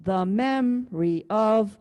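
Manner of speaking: slow measured beat, stretching MEM in MEMORY; stress on MEMORY. Shown as a demonstration. Teacher demonstrating second line's rhythm, stress on MEMORY. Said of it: "do the same thing on the second line".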